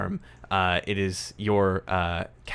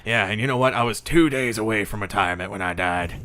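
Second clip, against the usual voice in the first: louder, lightly put-on voice of a griping ghost; aggrieved dead man; 7 dB louder, faster than usual. Dead Marcus griping to the detective, aggrieved.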